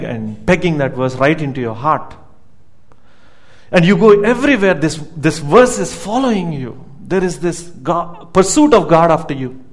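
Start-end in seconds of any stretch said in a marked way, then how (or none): 3.7-6.8 building fervor. Acted. Preacher builds intensity.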